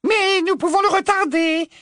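high, loud determined witch; firm witch voice. Acted. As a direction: say it firmly, resolved. Sprout voiced.

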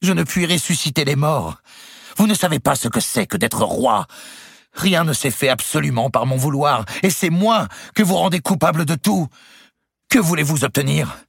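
high, loud self-pity; cornered king. A narrator's reading. Louis defends himself to Clémence, desperate. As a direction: protest helplessly.

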